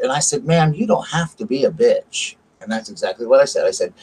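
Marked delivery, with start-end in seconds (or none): 0.4-2.3 slow, higher-pitched telling-off; retold confrontation, pitch raised; indignant retort. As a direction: space it out as a pointed rebuke. Acted quarrel with rude pharmacy clerk.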